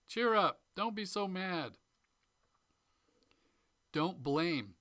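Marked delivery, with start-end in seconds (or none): 0.1-1.8 high, loud mock chirpy Cheer up; dismissive cheer. Trainer mimicking someone who shuts down an angry customer, in a mock chirpy tone. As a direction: brush off their anger with bright cheer. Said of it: "Don't shut down feelings".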